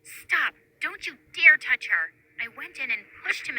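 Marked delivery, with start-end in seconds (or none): 0.0-2.1 loud furious yelling at a bully; angry shout. Acted. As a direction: stand up to him, shouting. Bully attacks, defending friend.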